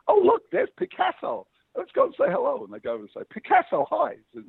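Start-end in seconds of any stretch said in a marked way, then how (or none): 0.1-2.6 excited American woman. Retold or imitated. American woman spots Picasso on the beach, excitedly. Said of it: "American woman's walking along the beach". 3.3-4.1 high falsetto gushing hello; American woman greeting. Retold or imitated. American woman greets Picasso on the beach, gushingly. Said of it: "American woman's walking along the beach".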